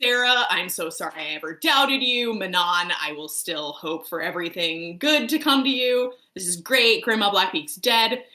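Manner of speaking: loud, gushing mock thank-you speech; retold celebration. Reader thanking the author in her retold mini party, gushing. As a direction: proclaim it with hammed-up relief. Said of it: "I had, like, a mini party".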